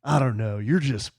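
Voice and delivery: put-on slow, earnest kid's reply; a hint of an admiring young son; lightly voiced little boy. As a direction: draw it out with a child's simple sincerity. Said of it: "He goes".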